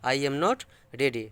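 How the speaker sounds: each word spelled out slowly; slow dictation. Shown as a demonstration. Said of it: "समझे कि नहीं?". (धीरे-धीरे बोलकर लिखवाना)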